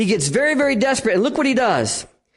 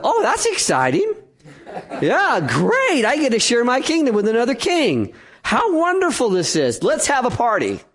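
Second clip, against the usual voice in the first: sarcastic fake cheer with laughter, pitched up; mock delight; 4 semitones higher than usual. Preacher mocking Herod's reaction, sarcastic fake cheer. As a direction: Herod pretending to be thrilled, laughing falsely. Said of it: "No, no, no. That's not what King Herod said".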